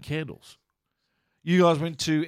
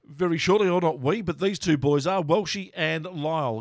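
hiccuping through the intro; with hiccups; 2 semitones higher than usual. Real, not acted. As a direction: talk with the hiccups. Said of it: "Excuse my hiccups there".

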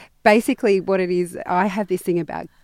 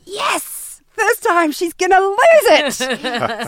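gleeful whisper-cheer; 12 semitones higher, 5 dB louder, slower than usual. Retold or imitated. Gloating behind daughter's back.

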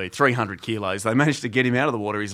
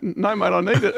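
whiny patient; 7 semitones higher than usual. Retold or imitated. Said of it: "And you're like".

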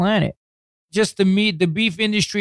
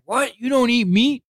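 mock surprise; 7 semitones higher than usual. The weightlifter's shocked reply, retold.

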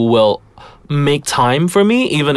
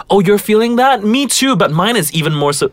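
one-upping friend; 9 semitones higher than usual. Retold or imitated. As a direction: play the one-upper. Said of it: "I've never said".

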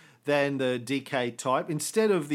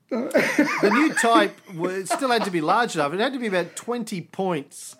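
lightly kept mock German accent; 6 semitones higher, 6 dB louder than usual. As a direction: keep the loud German voice going. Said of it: "in a German accent".

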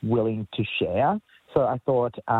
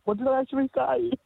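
anxious wondering. Retold or imitated. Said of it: "But I'm like".

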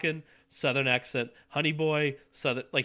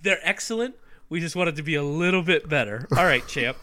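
louder, mocking echo of an excuse; skeptical mock quote; 5 dB louder than usual. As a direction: parrot it back with pointed disbelief. Mockingly echoes the actor's excuse.

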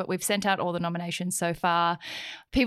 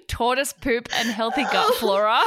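laughing while reading; 3 semitones higher, 3 dB louder than usual. Real, not acted. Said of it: "I couldn't even say that out loud".

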